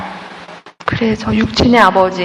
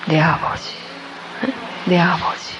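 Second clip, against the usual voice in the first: hushed awe; 4 semitones lower, 9 dB quieter than usual. Real, not acted. Preacher's hushed conclusion.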